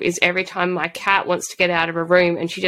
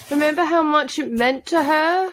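higher-pitched, pleading lament; wounded, higher voice; upset on her behalf; 5 semitones higher than usual. Real, not acted. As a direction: lament it with real sympathy.

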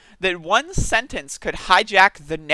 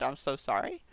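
ordinary delivery

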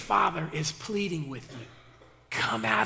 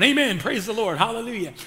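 pious catchwords thrown around lightly; mock church exclamations; 2 semitones higher, 5 dB louder than usual. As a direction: parody automatic church praise. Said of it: "We love to throw these words around".

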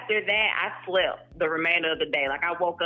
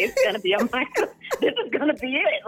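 excited; 7 semitones higher, faster than usual. Retold or imitated. Retold excited self before contest.

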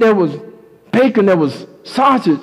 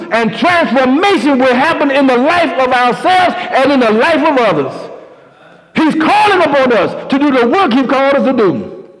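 preaching with building force, a bit higher; rising sermon; 3 semitones higher than usual. Acted. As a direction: lift the congregation, preacher style.

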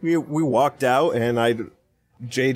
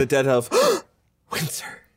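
imitating a hiccup. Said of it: "Like you were surprised that winter existed?".

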